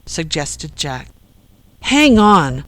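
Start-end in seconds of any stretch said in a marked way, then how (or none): 1.8-2.6 higher-pitched, incredulous splutter. A narrator's reading. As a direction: splutter it out in disbelief. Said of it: "spluttered Joel".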